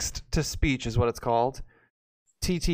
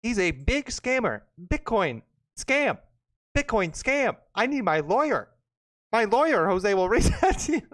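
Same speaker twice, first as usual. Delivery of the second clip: robot voice; 5 semitones higher than usual. Pretend. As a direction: read it like a robot. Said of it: "read the comment like a robot".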